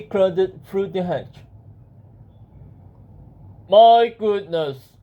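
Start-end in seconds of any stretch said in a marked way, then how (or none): 3.7-5.0 very slow, loud genie exclamation. Acted. Genie seeing the wisher return, drawn-out loud exclamation. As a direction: stretch it out with mock astonishment. Genie surprised at another visit.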